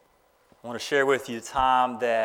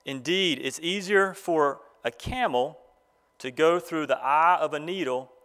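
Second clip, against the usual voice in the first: measured, deliberate Bible reading; formal reading to a congregation; scripture reading. Real, not acted. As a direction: read the passage aloud in phrases, pausing between them. Reads scripture aloud to graduates.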